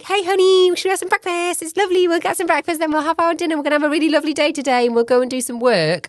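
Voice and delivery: high, loud sing-song imitation of an overly cheery partner; mock sweet partner. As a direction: mimic him gushing about the lovely day. Wife imitates partner's cheery morning plan.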